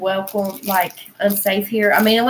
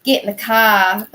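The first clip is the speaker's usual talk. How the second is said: imitated Northern accent, dropped R in car; mock Northern accent on a short order; 4 dB louder than usual. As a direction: mimic how Northerners say car, "cah". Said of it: "start speaking in an accent".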